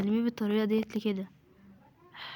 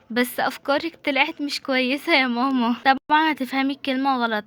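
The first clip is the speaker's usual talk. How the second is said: louder, insistent objection; exasperated protest; 3 semitones higher, 6 dB louder than usual. Acted. Daughter tells mother her ideas were bad, protesting loudly. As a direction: push back loudly at mum.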